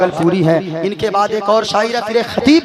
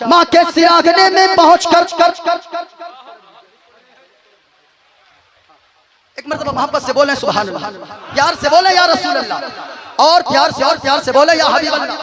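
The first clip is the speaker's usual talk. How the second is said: fiery preaching; 2 semitones higher than usual. Acted. Preacher retelling the mother's tale to the gathering, full preaching voice. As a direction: preach the parable full force to the crowd. Preacher tells story of three friends.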